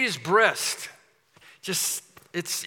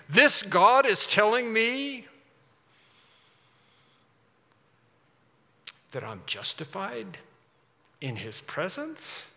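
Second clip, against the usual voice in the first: amazed disbelief; 5 semitones higher, slower than usual. Acted. The tax collector hearing God call him justified, amazed and hushed.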